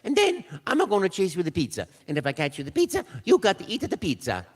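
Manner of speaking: lightly voiced cheerful plumber; a hint of the cartoon Mario. Audition tape, lightly voiced Mario. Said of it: "I said".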